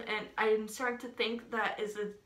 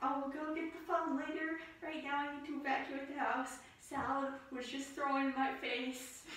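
mock hushed panic; 3 semitones higher, 9 dB quieter than usual. Fleeing the haunted house.

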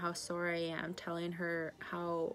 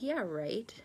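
sceptical scoff with a big pitch swoop; drawn-out, swooping disbelief; disbelieving. Retold or imitated. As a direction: say it as if you don't believe a word. Retold disbelieving reply to sister.

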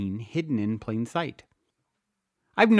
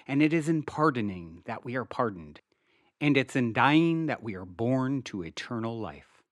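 soft, hushed prayer read with reverence; prayer recitation; 3 dB quieter than usual. Acted. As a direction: recite it gently, like a quiet prayer. Reciting the prayer of Saint Francis.

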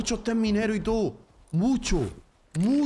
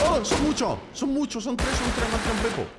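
urgent, alarmed high calls; panicked callouts; excited shouting; 5 semitones higher than usual. Real, not acted. Panic as enemies rush in.

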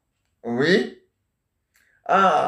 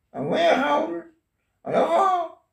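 much higher put-on wife voice; grandma playing the wife on a pretend phone call, voice pitched way up; 11 semitones higher, much slower than usual. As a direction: play the wife calling her husband on the phone, high and sweet.

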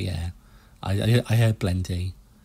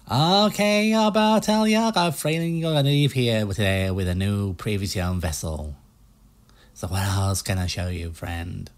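put-on US salesman accent. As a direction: pitch the boats like a pushy American car salesman. Player keeps voicing Stan.

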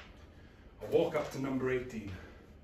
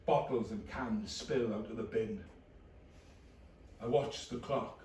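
flat depressed narration. Acted. Low depressed inner narration.

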